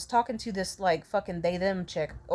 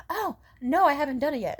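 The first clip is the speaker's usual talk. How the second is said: sheepish reply; 6 semitones higher than usual. Retold or imitated. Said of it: "And I s-, was like".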